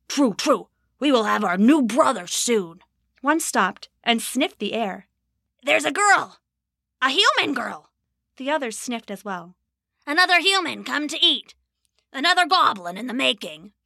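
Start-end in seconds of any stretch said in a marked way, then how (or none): 0.1-2.8 greedy goblin, pleased; a contented goblin agreeing. Acted. 5.6-7.9 excited goblin. Acted. Goblin sniffs the girl. 10.1-13.7 gloating goblin. Acted.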